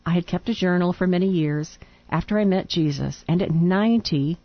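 reading a letter aloud. Real, not acted.

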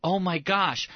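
mildly excited exclamation; acted excitement. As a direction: imitate someone suddenly getting excited. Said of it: "right away they get excited".

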